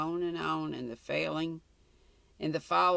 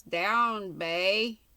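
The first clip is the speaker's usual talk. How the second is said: raised, louder command to a dog; 4 semitones higher, 5 dB louder than usual. A narrator's reading. Guide ordering the barking dog down, a raised command. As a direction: call the dog sharply to heel.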